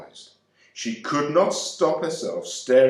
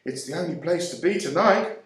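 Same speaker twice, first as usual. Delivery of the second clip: talking round a sweet; 6 semitones higher than usual. A narrator's reading. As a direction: mouth full of a cough sweet. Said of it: "with some difficulty owing to the confection".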